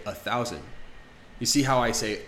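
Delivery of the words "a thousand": "a thousand" with a weak schwa "a". Shown as a demonstration. Teacher modeling "a thousand" for learners. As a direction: say "a thousand" with a quick unstressed "a". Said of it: "we'll say".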